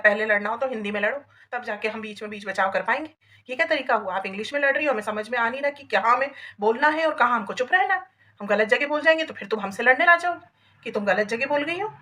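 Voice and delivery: loud, firm village-elder scolding; scolding neighbours. Retold or imitated. Village woman scolds quarrelling neighbours, loud and firm. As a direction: lay down the law to the whole street.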